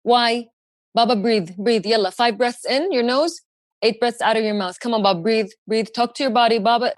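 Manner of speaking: gentle breathing coach for dad. Retold or imitated. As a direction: urge him to breathe, steady and caring.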